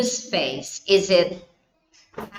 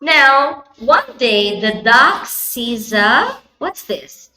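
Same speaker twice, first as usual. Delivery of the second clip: put-on reading to a toddler. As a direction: read it like a picture book for a toddler. Storytelling to a young child.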